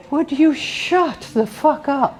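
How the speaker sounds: sweet little lady. Retold or imitated. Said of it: "this sweet little lady turns".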